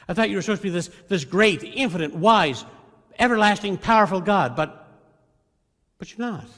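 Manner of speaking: rising to loud anguished accusation; accusing prayer. Retold or imitated. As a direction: build from hurt to loud reproach. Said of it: "he's saying something like this".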